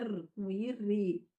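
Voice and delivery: slow phonics demo of "R" joining I to make "ri"; weak R sound. Shown as a demonstration. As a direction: sound out the tapped R, then blend it slowly into "ri". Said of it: "o som do R fraco no meio da palavra".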